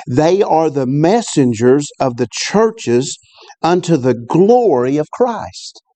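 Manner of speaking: slow, deliberate Bible reading; scripture reading. Real, not acted. Preacher reading the verse to his church, slow and solemn. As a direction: lay each word of the verse down slowly.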